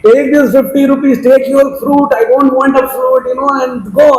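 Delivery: mock indignant refusal, rising as it goes; angered lady. Offended lady throwing back the bribe, mild mock anger. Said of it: "really became raised, you know, angered".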